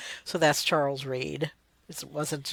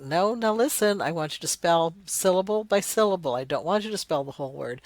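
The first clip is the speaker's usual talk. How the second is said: lightly acted teacher correcting a pupil; mild insistence, as if coaching a speller; insistent teacher; 3 semitones higher than usual. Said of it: "you're sitting there going".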